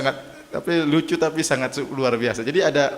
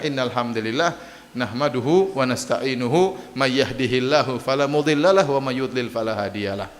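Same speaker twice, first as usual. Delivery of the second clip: Arabic recitation; 3 semitones lower than usual. Retold or imitated. Prophet recites the opening sermon.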